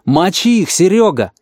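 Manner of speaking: loud, high call to attack; shouted order. A narrator's reading. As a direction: yell the command to charge. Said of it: "и Мюллер крикнул".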